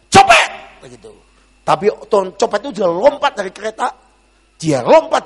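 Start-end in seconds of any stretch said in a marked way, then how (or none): 0.1-0.5 sudden very high, loud cry; imitated shout. Grandmother behind cries out about a pickpocket, imitated shout. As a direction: yell it out as an alarm. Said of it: "nenek itu teriak".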